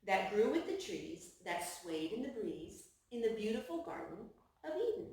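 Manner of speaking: hushed picture-book narration. Acted. Reading to children.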